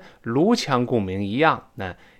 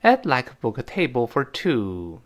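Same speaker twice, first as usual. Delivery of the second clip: read-along model. Shown as a demonstration. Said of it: "再来一遍".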